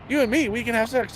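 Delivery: lightly mimicked Indian accent, high. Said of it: "Indian accent".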